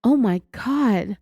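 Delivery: slow, drawn-out mock shock; acting out shocked reaction. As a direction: play the horrified listener, stretching the words. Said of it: "type of reaction".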